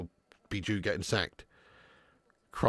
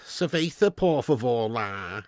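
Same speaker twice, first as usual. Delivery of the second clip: Cuban Scouser; 4 semitones lower than usual. Retold or imitated. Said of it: "somebody who's like".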